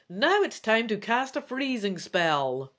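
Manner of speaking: a hint of a commanding queen; queen's command. Queen tells the dragon she will freeze the wizard. Queen readies her spell.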